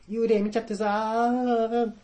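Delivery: high, drawn-out panicky voice; high, stretched-out frightened cry; panicked friend. Retold or imitated. Friend's panicked phone call quoted.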